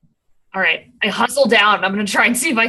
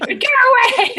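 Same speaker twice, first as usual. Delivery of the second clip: mock French taunter; 13 semitones higher than usual. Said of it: "the guy's like".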